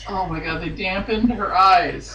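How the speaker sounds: reading through tears of laughter; laughing. Real, not acted. Reading the line aloud, laughing through it. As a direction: force the words out while cracking up.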